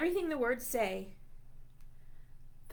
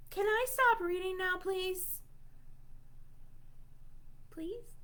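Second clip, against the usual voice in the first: pleading; 6 semitones higher than usual. Pretend. Begging to stop reading.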